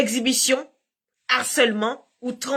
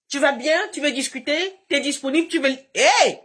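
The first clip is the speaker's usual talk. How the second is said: mock pushy flirt; 4 semitones higher than usual. Imitating the harasser's messages.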